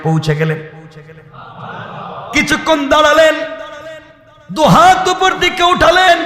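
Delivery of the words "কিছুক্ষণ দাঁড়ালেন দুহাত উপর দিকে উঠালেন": full-force preaching. Acted. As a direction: wail it out like a tearful preacher. Preaching, Prophet weeping at graveyard. (উঁচু গলায় কান্নাভরা ওয়াজ)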